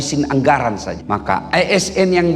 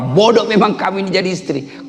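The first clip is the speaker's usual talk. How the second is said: mock angry outburst, pitched higher; angry husband; 5 semitones higher than usual. Husband storms into messy room and berates wife, angry. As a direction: scold as an irritated husband, raised pitch.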